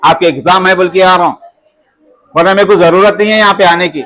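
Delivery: low, subdued scolding of pupils; real reproach. Real, not acted. Teacher reproaching unresponsive pupils. (धीमी आवाज़ में शिकायत भरी डाँट)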